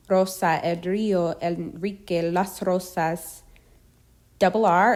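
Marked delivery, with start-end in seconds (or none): 0.1-3.4 R trilled in Rosa, río, Enrique, rosas. Shown as a demonstration. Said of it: "is trilled like double R".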